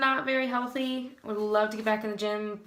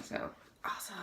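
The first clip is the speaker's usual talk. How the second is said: dry whispered sarcasm; sarcastic whisper; 2 semitones lower, 13 dB quieter, faster than usual. Real, not acted. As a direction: breathe it out sarcastically. Sarcastic aside about the result.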